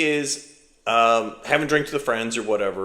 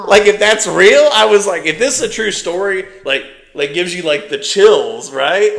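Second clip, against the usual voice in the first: higher and louder, still laughing; gushing that it gives you chills; excited; 6 semitones higher, 9 dB louder than usual. Real, not acted. Telling the friend about the twist, excited and laughing.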